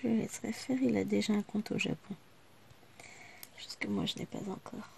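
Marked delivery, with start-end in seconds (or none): 3.6-4.9 soft whispered afterthought; whispered aside. Real, not acted. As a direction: whisper it under your breath. Muttered aside to herself.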